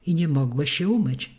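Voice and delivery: ordinary delivery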